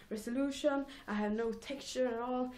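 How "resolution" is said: "resolution" higher, said whole and deliberately; careful retry. Real, not acted. Vlogger repeating the fumbled word, "resolution" higher and careful. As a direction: say "resolution" again carefully, pitched up. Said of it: "I can't talk today".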